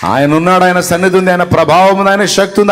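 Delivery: loud, high, climbing proclamation; fervent shout of faith; full-force preaching. Acted. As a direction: preach it out to the whole hall, building. Preacher proclaims God's power.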